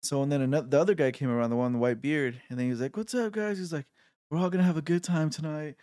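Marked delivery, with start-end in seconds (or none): 3.0-5.7 put-on drunk bearded guy.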